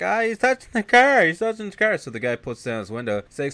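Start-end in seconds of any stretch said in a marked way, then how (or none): 0.0-2.0 loud, very high mock panic; retold freak-out. Lady in a car being pushed, high mock panic. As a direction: shriek it like a hammed-up panicky passenger. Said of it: "the lady starts freaking out".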